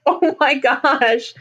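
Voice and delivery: slow mock gasp of recognition; retold astonishment. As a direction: stretch it out like you can't believe it. Retells her reaction on seeing character.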